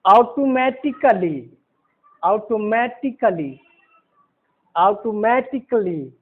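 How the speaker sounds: slow, deliberate "ऑटोमेटिकली"; pronunciation model. Shown as a demonstration. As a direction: say "ऑटोमेटिकली" drawn out for learners to follow. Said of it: "उच्चारण पर ध्यान देंगे, उसको हम बोल रहे हैं".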